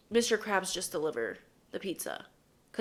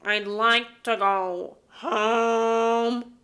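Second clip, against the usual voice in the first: very slow, louder nasal Squidward drawl; Squidward impression; 2 semitones higher, 5 dB louder, much slower than usual. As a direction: stretch every word like a weary Squidward. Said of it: "I can sound almost exactly like Squidward".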